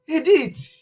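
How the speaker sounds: Edith ending in a hard t, "eh-DEET"; village pronunciation. Retold or imitated. Calling her in the village, Edith said with hard t. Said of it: "when you calling Edith in the village".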